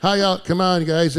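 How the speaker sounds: high-pitched mock plea to the crowd; imitated struggling comic; pleading stand-up. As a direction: try to win back a rowdy room. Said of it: "and he's like".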